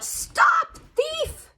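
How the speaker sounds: high, loud angry cry of stop thief; angry gardener shouting after a thief; shouted call. Acted. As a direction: yell after the rabbit, high and sharp. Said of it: "calling out".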